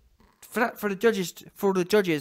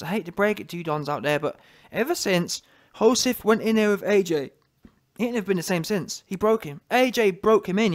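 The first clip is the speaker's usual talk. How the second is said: ordinary talk, nothing marked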